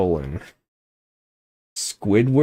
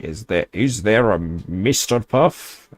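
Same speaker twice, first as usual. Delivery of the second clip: a lightly voiced Mister Krabs; a hint of the crab captain asking; Mister Krabs impression; 3 semitones higher than usual. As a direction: sailor crab voice, only lightly put on. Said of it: "impression that was".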